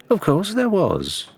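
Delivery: put-on high, sharp snap of an old woman, slow; sharp retort. A narrator's reading. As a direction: cut her short, offended. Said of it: "so sharply that Mercia actually flushed".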